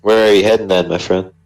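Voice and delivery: a hint of a southern gent coaxing a stranger; southern accent. A traveler pressing the prisoner for details, light southern accent. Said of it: "Why have you gone southern?".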